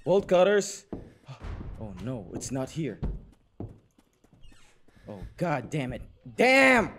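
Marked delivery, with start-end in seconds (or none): 0.0-3.0 whispering. Real, not acted. Hushed search.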